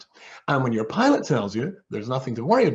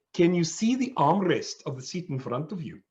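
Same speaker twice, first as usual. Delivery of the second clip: higher-pitched South African stewardess imitation; South African accent; 5 semitones higher than usual. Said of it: "in her South African accent".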